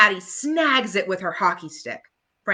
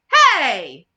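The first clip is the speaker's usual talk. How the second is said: sudden loud "Hey!"; yelling Lucy; 5 semitones higher, 10 dB louder than usual. Acted. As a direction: call out sharply, offended. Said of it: "Lucy yells".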